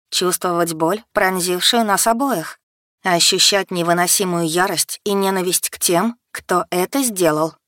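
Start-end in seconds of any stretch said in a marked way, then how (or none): none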